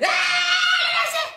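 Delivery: long high-pitched loud scream; hammed-up, piercing shriek; mock scream. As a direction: scream "aah" as if losing it on the job. Acts out screaming over a work file.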